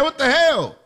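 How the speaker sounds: imitating an angry grandparent; a hint of a startled what the hell; grandparent's mock outburst; mock outrage. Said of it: "You're saying".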